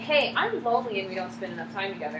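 gentle complaint. Shown as a demonstration. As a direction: say it softly, opening up to your partner. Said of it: "big difference between saying".

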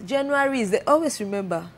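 sarcastic. Real, not acted. Joking to friends about holiday drinking, sarcastic. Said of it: "they can feel the sarcasm in my voice".

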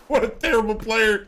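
mocking laugh then jeer. Real, not acted. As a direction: laugh through the taunt. Laughs at beaten enemy.

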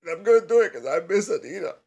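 loud, high burst of missing her; hammed-up moment of weakness; emotional outburst. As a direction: blurt it out loudly as composure breaks. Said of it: "I had a moment".

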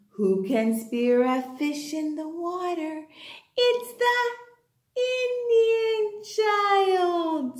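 slow, drawn-out singsong questions; children's poem recitation. Shown as a demonstration. Teacher leading small children through a poem, slow singsong recitation. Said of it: "should we do our Indian child poem?".

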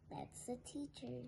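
ordinary delivery

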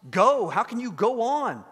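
acted incredulous plea; bewildered pleading. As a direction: ask as the desperate friend, baffled. Acting the bewildered, despairing friend's question.

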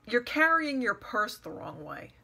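mildly picky, retold fault-finding; retold criticism. A woman criticizing her as she leaves, mock nitpicking. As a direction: point out a petty fault, lightly imitated.

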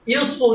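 ইউজফুল split into ইউজ and ফুল; slow two-part ইউজফুল; broken into syllables. Shown as a demonstration. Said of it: "উচ্চারণ করতে গেলে ভেঙে ভেঙে".

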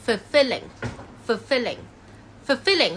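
"fulfilling" said slowly, L starting the last syllable; teacher's careful repeated "fulfilling", paused between takes; slow, clear "fulfilling" with the L moved onto -ling; model pronunciation. Shown as a demonstration. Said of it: "將個L拆去後邊讀".

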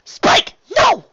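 loud, gasped cry of protest; alarmed gasp. A narrator's reading. Rarity stopping Spike from fighting, alarmed gasp. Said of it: "Rarity gasped".

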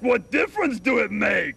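amused mock of a friend's question; laughing retelling. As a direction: giggle out the question you're mocking. Laughing while retelling Ernie's question.

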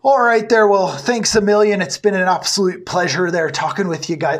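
hammed-up Irish accent that drifts Scottish; clumsy put-on Irish accent; bad Irish accent. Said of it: "my ridiculously good Irish accent".

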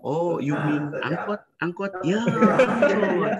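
teasing local correcting a tourist, rising high; amused correction. Retold or imitated. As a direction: correct the foreigner kindly with a laugh. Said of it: "kita malah bilang".

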